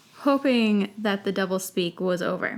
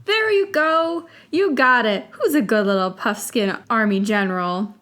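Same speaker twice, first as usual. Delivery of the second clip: put-on baby talk; 6 dB louder than usual. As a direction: praise a pet in baby talk. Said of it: "in a baby-like voice".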